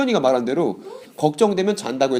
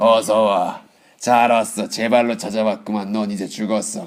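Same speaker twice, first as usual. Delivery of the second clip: acted, menacing tone, lower pitch; 6 semitones lower than usual. Acting out Esau greeting his brother with a threat: menacing, voicing Esau threatening. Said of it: "이러고 있었을까요?".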